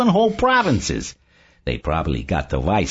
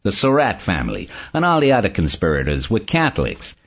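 pleasant; 4 semitones lower than usual. A narrator's reading. Barney explains his book to Saul, pleasantly. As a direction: explain it pleasantly, with easy confidence. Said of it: "Barney said pleasantly".

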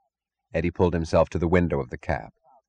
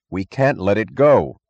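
crying out; 3 semitones higher, 5 dB louder, slower than usual. Acted. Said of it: "he cried".

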